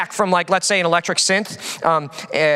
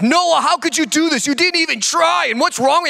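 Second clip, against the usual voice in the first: mock blame; 9 semitones higher than usual. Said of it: "I was like".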